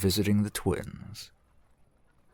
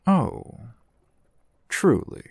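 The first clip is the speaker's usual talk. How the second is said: high, louder gasp of delight; delighted surprise; 4 semitones higher, 4 dB louder than usual. Acted. Merchant thrilled by a customer's generous gift, surprised and delighted. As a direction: gush with surprised pleasure at the gift.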